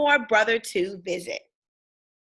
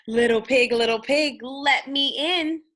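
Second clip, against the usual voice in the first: calling wolf; 3 semitones higher, 4 dB louder than usual. Acted. Wolf calls at the door.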